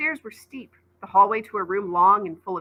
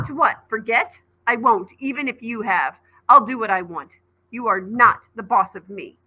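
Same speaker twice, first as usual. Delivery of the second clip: raised defiant voice, louder; angry outburst; 3 semitones higher, 6 dB louder than usual. Acted. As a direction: snap back at dad. Child yelling at dad.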